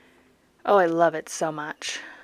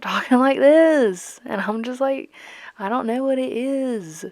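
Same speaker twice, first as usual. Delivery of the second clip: slow, higher-pitched country drawl; country accent; 5 semitones higher, 4 dB louder, slower than usual. Shown as a demonstration. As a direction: slip into a silly, drawn-out country accent. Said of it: "too much of a country accent".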